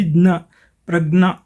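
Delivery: ज्ञ as "gna", प्रज्ञा as "prag-naa"; GN pronunciation. Shown as a demonstration. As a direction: say ज्ञ and प्रज्ञा with hard g plus n. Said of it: "उच्चारण के अनुसार जीएन हो जाएगी".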